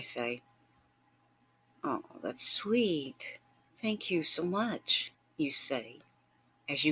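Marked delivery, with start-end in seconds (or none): 1.8-5.1 touched thanks. Acted. Partner thanking lover for breakfast offer.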